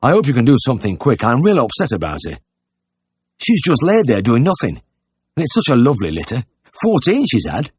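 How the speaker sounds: high, upset country voice; distressed innkeeper, pitch climbing; worried pig-keeper. A narrator's reading. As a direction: fret aloud over a beloved sow. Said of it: "his face was haggard with worry".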